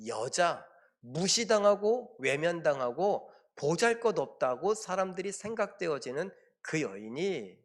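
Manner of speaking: normal talking voice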